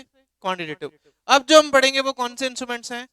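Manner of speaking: ordinary talk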